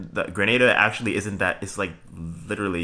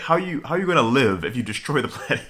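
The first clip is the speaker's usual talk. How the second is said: incredulous questioning; 5 semitones higher, faster than usual. Real, not acted. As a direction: pitch jumps up high in disbelief. Mocking villains destroying the planet.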